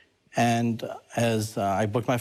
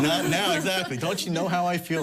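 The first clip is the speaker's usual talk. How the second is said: higher, pleading whine; mock protest; 8 semitones higher than usual. Believer protests to God, higher pleading whine. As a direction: beg to be left alone.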